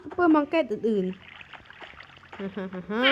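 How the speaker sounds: slow, low, evil cackle; villain laugh. Acted. Robber gloating over his heist plan with a slow evil laugh. Villain plans to rob supermarket.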